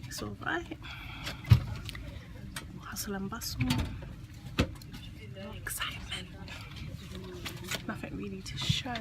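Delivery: hushed whisper on a quiet train. Real, not acted. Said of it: "Don't even know why I'm whispering".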